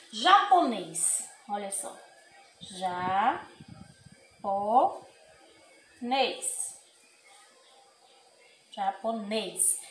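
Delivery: japonês, last ê closed and drawn out slowly. Shown as a demonstration. Teacher slowly models circumflex: closed ê. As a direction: stretch japonês with a tight closed ê. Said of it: "o som sai fechado".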